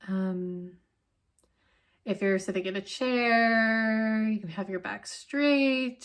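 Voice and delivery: calm, unhurried instruction with long pauses; guided meditation. Acted. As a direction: gently settle listeners in, leaving space between phrases.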